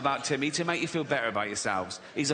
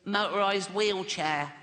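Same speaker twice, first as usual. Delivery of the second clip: slow, strained little-boy voice with a put-on wheeze; Timmy's funny voice; 4 semitones higher, slower than usual. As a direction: squeeze out each word like a frail kid. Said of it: "I promised Jane I wouldn't do the voice".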